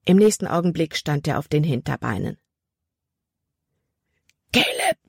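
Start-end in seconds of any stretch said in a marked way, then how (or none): 4.5-5.0 high strangled call for help; Libby, frozen by fear, calling Caleb; panicked cry. A narrator's reading. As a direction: try to scream his name but choke. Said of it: "versuchte Libby zu schreien".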